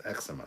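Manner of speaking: "eczema" as "EK-suh-muh"; correct pronunciation. Shown as a demonstration. Streamer concedes the proper version, correct pronunciation. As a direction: say "eczema" with first-syllable stress and short e. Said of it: "That's correct".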